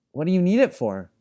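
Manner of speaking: put-on high, loud little girl's voice; little piping voice. A narrator's reading. Little girl Pem asks Bast what it's for, piping. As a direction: pipe up like a small girl. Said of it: "in her little piping voice".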